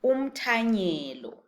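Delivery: umthanyelo said slowly, syllable by syllable; slow repeat-after-me model. Shown as a demonstration. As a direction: pronounce umthanyelo slowly and clearly for learners. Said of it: "So say it after me".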